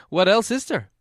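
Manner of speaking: a mild hint of a hobbit; Bilbo's voice. A narrator's reading. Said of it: "said Bilbo".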